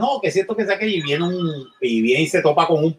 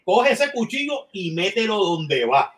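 Al Pacino as devil; 3 semitones higher than usual. Retold or imitated. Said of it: "Al Pacino y dice".

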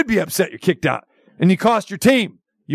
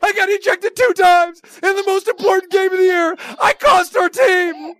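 mock crying apology; 8 semitones higher than usual. Host mocking the linebacker's tearful apology, mock sobbing. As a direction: fake sob through the apology.

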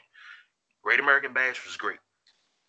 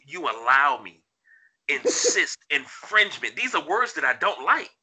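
wrestling promo; 3 semitones higher, 3 dB louder than usual. Pretend. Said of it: "Are you gonna cut a promo?".

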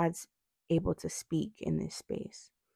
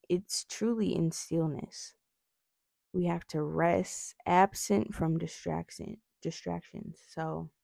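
talking around retainers; retainers in mouth. Real, not acted. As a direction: speak with retainers in. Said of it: "I have these, um, retainers in my mouth".

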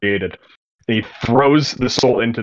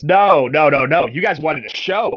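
a louder, mock-scolding villain calling out to the crowd; louder villain taunt; 4 semitones higher, 4 dB louder than usual. Blimbo addresses terrified crowd.

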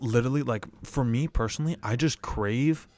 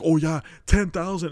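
mocking Jake Paul; 6 semitones higher, 6 dB louder than usual. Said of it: "he's doing the stupid face".

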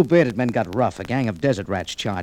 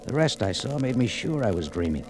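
hushed story narration; 2 semitones lower than usual. A narrator's reading. Narrator describes waking up.

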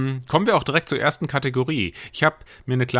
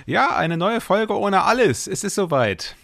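announcer; 10 semitones higher than usual. Acted. Show opening announcement.

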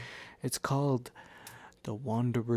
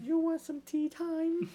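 much higher, hammed-up teatime voice; mock posh Brit; 4 dB louder than usual. Joking about British tea, much higher hammed-up voice. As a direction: play a fussy English host.

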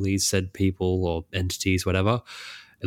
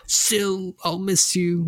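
mock tearful goodbye; 10 semitones higher, much slower than usual. Kaladin bidding Syl farewell, mock-tearful and high. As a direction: voice pushed way up for a tearful parting. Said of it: "And he's like".

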